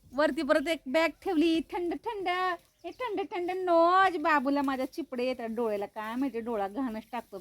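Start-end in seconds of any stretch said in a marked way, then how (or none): 1.7-4.2 higher, slow, cooing pet talk. Real, not acted. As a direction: coo over the dog's cold nose. Cooing over dog's cold nose.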